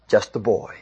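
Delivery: soft, low letdown; deflated. A narrator's reading. Narrator revealing the hoped-for champion to Saul, quietly deflated. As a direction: drop the voice in anticlimax. King sees the boy, let down.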